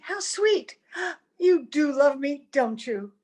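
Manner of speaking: moved almost to crying; a little gasp, then tearful gratitude; touched, near tears. Acted. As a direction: voice catching with emotion. Touched by maid's gift.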